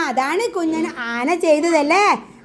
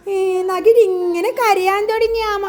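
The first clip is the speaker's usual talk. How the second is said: mock crying; 3 semitones higher than usual. Shown as a demonstration. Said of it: "എങ്ങനെയാ ആമ കരഞ്ഞത്?".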